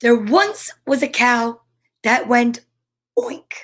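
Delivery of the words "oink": high squeaky oink; tiny high-pitched oink; squeaky cow oink. Acted. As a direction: oink like a silly little cow. Cow in story goes oink.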